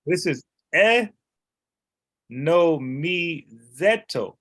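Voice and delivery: very slow eh no mi zeto, each syllable apart; careful slow Greek reading. Shown as a demonstration. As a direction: spell it out by ear, slowly. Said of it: "the actual word is eto".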